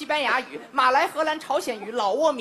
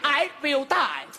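English-language storytelling. Shown as a demonstration. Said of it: "and he said".

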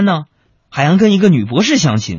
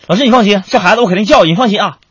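dad assuring teacher; 5 semitones higher, 5 dB louder, faster than usual. Retold or imitated.

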